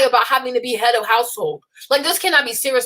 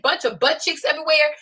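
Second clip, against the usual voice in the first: ordinary delivery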